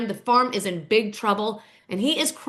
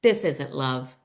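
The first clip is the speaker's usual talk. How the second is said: Mama McBee; 8 semitones lower, slower than usual. Retold or imitated. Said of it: "Mama McBee grabs her opportunity".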